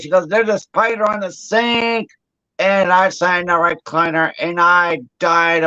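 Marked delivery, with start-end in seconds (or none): 0.3-2.1 mock scared. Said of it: "She got so scared".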